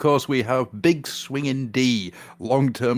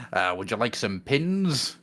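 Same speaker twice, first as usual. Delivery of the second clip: attempted Cockney; slower than usual. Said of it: "That's not Cockney. That's kind of, like, Australian".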